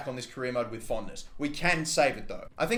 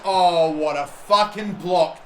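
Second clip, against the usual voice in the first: a loud, drawn-out "oh" at the block; excited exclamation; 2 semitones higher, 7 dB louder, slower than usual. Real, not acted. Gamer stunned by a last-ditch block, loud and slow. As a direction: gasp it out in disbelief at the save.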